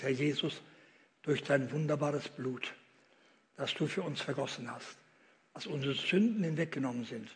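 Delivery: hushed closing prayer; quiet prayer. Acted. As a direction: pray it gently to the Lord.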